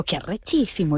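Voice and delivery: playful mock-Venezuelan slang delivery; Venezuelan accent. Customer fooling a Venezuelan waiter, Venezuelan accent. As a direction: put on a Venezuelan accent for fun. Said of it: "yo por diversión imito acentos".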